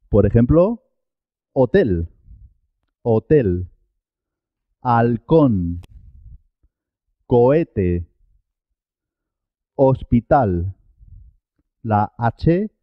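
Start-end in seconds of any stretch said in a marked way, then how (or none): 1.5-10.7 hotel, halcón, cohete, hospital with no h sound; silent H. Shown as a demonstration. Teacher giving examples of mute H, carefully spaced silent-h words. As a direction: start hotel, halcón, hospital on the bare vowel, cohete as "co-ete". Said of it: "pero no suena".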